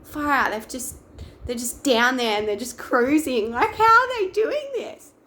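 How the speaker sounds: retold awe that climbs to a high pitch; amazed. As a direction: marvel at the divers cruising below. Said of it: "I'm watching them just going".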